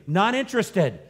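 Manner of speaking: acted-out loud, high brush-off; grandma's emphatic no; curt refusal. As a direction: shut the request down firmly.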